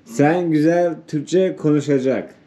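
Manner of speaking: yavaş, basit, kırık Türkçe; yabancıya tane tane konuşma; foreigner broken turkish. Real, not acted. Simplified Turkish for an Iranian guest. (yabancıya bozuk Türkçe)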